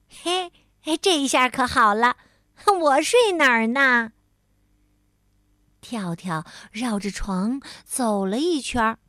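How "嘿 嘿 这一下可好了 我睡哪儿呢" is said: rueful half-laugh, louder at the end; wry laugh. Acted. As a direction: laugh bitterly at the situation. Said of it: "跳跳苦笑着说".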